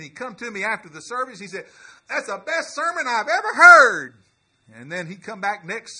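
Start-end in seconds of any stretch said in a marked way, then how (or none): 2.1-4.1 high, loud, thrilled exclaiming; loud, high imitation of a thrilled churchgoer; excited praise. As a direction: burst out with delight like the old man. Cothran's excited praise retold.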